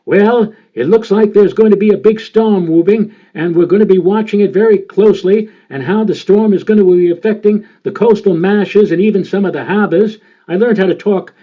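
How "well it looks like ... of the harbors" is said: put-on light Boston accent, radio forecast delivery; Don Kent Boston accent. Imitating the Boston radio weatherman heard as a boy, Boston accent. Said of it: "in that New Englandese accent".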